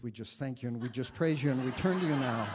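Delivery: fast, loud praying that dissolves into laughter; surprised own prayer. Real, not acted. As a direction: blurt the friend's words and catch yourself laughing. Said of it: "astonished by the words that came out of my mouth".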